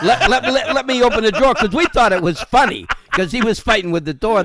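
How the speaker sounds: high and loud through laughter; laughing. Real, not acted. Friend chiming in on the story, laughing loudly. Laughing while retelling the fight.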